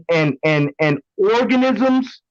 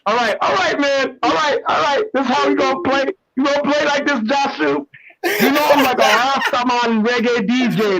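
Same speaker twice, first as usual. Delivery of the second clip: sped-up high-pitched chipmunk filter; 5 semitones higher, faster than usual. Real, not acted. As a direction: voice pitched up like helium. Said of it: "You did a chipmunk voice too".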